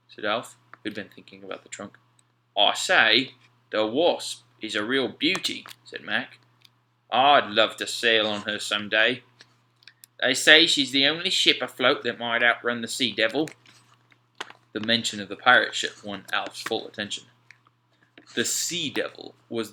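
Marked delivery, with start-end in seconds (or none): 2.6-13.5 dreaming aloud of sailing her; Mac, admiring sailor. A narrator's reading. Mac to Alf about the Wasp, loud admiring voice.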